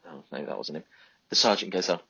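ordinary delivery

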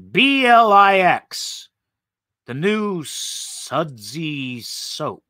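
slow, letter by letter; drawn-out reading of the label; spelled out slowly. Acted.

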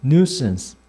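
nuisance said as NYOO-suhns, falling; English pronunciation demo. Shown as a demonstration. Teacher has students repeat after him, nuisance pronounced NYOO-suhns. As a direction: model nuisance with stress on the first syllable. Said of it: "발음 이렇게요".

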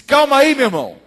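high, loud, startled plea to back off; alarmed outburst. Acted. Young man jumps back from the pastor, alarmed outburst.

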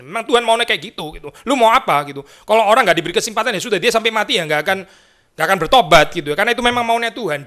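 high, fast, smug mock voice; sneering imitation of cold theology. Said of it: "Dingin sekali, bukan cuma dingin, kejam".

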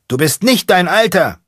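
very high, loud yell; shouting. Acted. Mechanic answering the space monkey, shouting. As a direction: scream it back. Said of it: "Der Mechaniker schreit".

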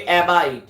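অ্যাবাইড said firmly as one word, falling at the end; mantra pronunciation. Shown as a demonstration. Guru shows followers the mantra word, অ্যাবাইড pronounced firmly. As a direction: pronounce অ্যাবাইড clearly and emphatically, letting it drop. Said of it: "এই শব্দটাই উচ্চারণ করতে হবে".

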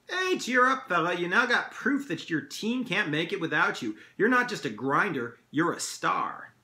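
high, lightly hammed Canadian pep talk; a touch of jokey Canadian dad; fake Canadian accent. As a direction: cheer them up in a mock Canadian accent. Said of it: "putting on a fake Canadian accent".

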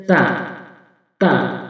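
"তা" with tongue tip on upper tooth roots; demonstrated Arabic ta. Shown as a demonstration. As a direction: model "তা" as a separate letter, tongue tip behind upper teeth. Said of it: "জিহ্বার আগা উপরে দাঁতের গোড়ায় স্পর্শ করুন".

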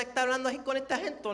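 lazy coastal Acapulco accent, quick and slurred; demonstrating the Acapulco accent. Shown as a demonstration. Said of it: "en el acento acapulqueño".

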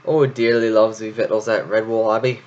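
loud, gleeful hungry cheer; gleeful shout of hunger. Acted. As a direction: relish the food to come. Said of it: "Roop chuckled and rubbed his stomach gleefully".

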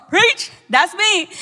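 drawn-out, slow call of preach; playful front-row shout-out; slow cheer. Retold or imitated.

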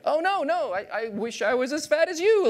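high, falsely sweet reply; fake-nice jab; mock polite retort. Skinny guy answering the compliment in a high mock-sweet voice. Sarcastic retort, much higher.

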